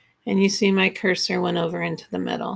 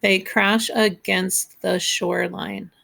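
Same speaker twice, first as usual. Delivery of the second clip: slow haiku reading. Shown as a demonstration. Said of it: "That's seven".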